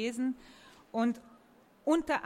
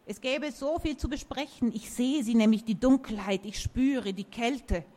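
dark, louder, slowing oak; ominous talking tree; 2 semitones higher, 3 dB louder than usual. Acted. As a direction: warn of the dark like a seer. Oak voice in a story.

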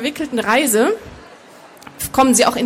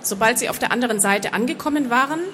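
measured audiobook narration; story narration; 3 dB quieter than usual. A narrator's reading. Author reading her fantasy novel to an audience, measured narration. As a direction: read the story out evenly and composed.

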